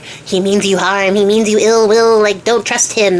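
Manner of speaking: slow, drawn-out words poured into an ear; lightly acted scheming whisperer's role, voiced; insidious advisor. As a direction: plant suspicion slowly, Wormtongue style. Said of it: "she's in his ear like".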